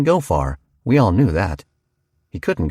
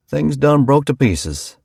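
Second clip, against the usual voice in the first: higher, slowed, pressed home on done; emphatic farmer; 6 semitones higher, 3 dB louder, slower than usual. A narrator's reading. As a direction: nail the point, done leaned on. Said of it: "he said".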